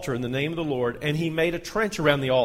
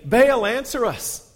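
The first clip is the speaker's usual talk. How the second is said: high, slow, drawn-out call; calling out to Baal; 8 semitones higher, 6 dB louder, slower than usual. Acted. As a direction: plead to the sky, stretching each word.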